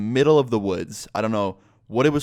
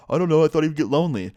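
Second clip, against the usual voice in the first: high, louder put-on friend voice; clueless friend impression; 6 semitones higher, 4 dB louder, faster than usual. High friend explaining himself from the hole, high clueless voice. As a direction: give a silly excuse, pitched up.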